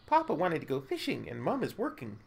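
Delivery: a lightly voiced bored little girl; hint of a sulky child. Streamer voices the NPC girl, mild bored child voice.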